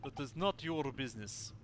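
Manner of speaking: curt Russian seaman; Russian accent. Acted. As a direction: stress on not, Russian accent. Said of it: "sorry to literally anybody who actually has a Russian accent".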